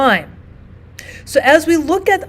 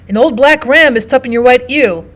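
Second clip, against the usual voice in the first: crude mocking tone; 5 dB louder than usual. Shown as a demonstration. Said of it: "in the tone you believe Iago would use".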